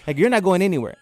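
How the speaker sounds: high-pitched raspy tirade; hammed-up scolding, pitched well up; loud raspy imitation. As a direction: mimic a feisty girlfriend ranting in public. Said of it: "she does this really loud, raspy voice".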